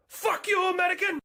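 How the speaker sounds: high, loud hostile shout; angry yell. Acted. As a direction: hurl it at them at a high-pitched yell. Hostile character yells at America.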